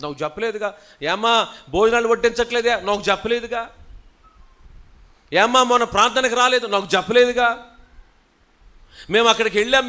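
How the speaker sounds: whiny grievance swelling into a loud grumble; mock complaining church member. Pastor mimicking members who say nobody told them, building to loud. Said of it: "నాకు కొంతమంది అంటారు".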